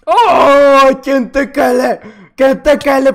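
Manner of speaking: shouted, cocky challenge; loud taunt. Real, not acted. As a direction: call him out loud and cocky. Challenging another player loudly.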